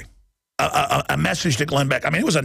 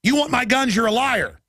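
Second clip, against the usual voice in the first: raised, pitched-up defiance at the Redcoat; defiant call-out; 8 semitones higher than usual. Retold or imitated. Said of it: "I just say".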